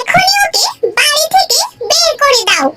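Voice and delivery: shout, near tears with rage; furious shouting wife. Acted. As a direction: scream the demand to throw her out. Wife sees husband's new bride. (কান্নাভেজা রাগী চিৎকার)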